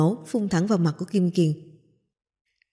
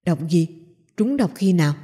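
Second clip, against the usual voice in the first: urgent question. Acted. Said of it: "gấp giọng hỏi".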